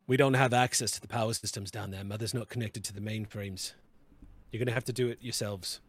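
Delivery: firm director. Acted. Director answers over comms.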